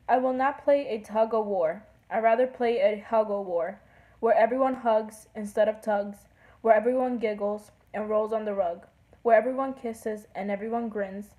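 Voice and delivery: lightly singsong poem reading; poem recital. Acted. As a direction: read the rhyme aloud with a steady beat. Reads a poem aloud.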